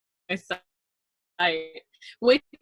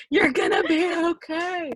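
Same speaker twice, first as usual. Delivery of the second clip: mock reassurance; 10 semitones higher, 3 dB louder than usual. Teasing friend's self pep talk.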